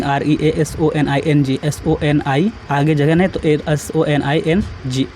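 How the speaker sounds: slow, letter by letter spelling. Shown as a demonstration. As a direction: spell each letter slowly for the class. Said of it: "तार्किकता मतलब reasoning". (अक्षर-अक्षर धीरे-धीरे बोलना)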